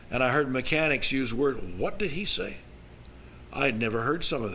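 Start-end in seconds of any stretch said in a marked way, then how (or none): 1.8-2.6 higher-pitched baffled aside; lightly acted bewilderment; puzzled question. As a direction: mimic a naive youngster's puzzlement. Young self puzzled by mechanics' swearing.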